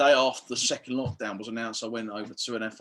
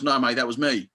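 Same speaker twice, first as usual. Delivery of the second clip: retold heckle; 2 semitones higher, 6 dB louder than usual. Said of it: "this guy in the crowd goes".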